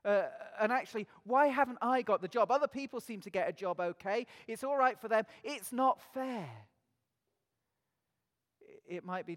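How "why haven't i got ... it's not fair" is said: complaining voice. Pretend. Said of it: "to do with work".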